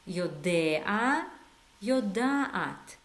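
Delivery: יודע then יודעת with a long aat; slow model of יודע against יודעת; careful contrast. Shown as a demonstration. Teacher modelling both forms for learners to copy. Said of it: "pronounce it this way".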